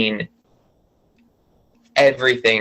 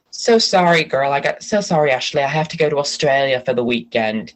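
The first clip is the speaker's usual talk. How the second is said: lightly put-on Australian accent; badly faked Australian husband making excuses; hint of a hammy Australian accent; bad Australian accent. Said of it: "Sorry, that's a bad accent".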